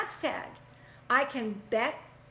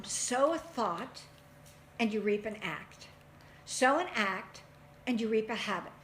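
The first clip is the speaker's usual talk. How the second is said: reciting a saying. Real, not acted. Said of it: "that wonderful one that says".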